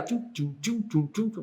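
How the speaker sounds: soft repeated "tchum" sounds; imitated pulsing noise. Host showing an accelerated heartbeat, imitated pulsing. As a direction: mimic the beeps of a pulse line. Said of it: "é acelerado mesmo".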